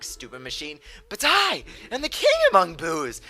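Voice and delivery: hammy villain boss taunts, rising loud; King Boo voice. Acted. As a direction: taunt like a cocky ghost king. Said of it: "I really enjoy the way I read final bosses".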